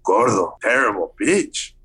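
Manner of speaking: accented mock disbelief rising to a punchline; deadpan then building outrage in Guillermo's accent; lightly voiced Guillermo roasting the pitch; Guillermo's blunt verdict. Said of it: "And he goes".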